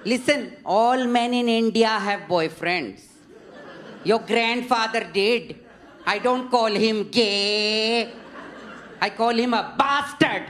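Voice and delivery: lightly voiced Indian grandma, slow and incredulous; dismissive matriarch brushing it off, played for laughs; a hint of a blunt old lady with a light Indian accent; imitating Indian grandmother. Grandmother quoted at breakfast.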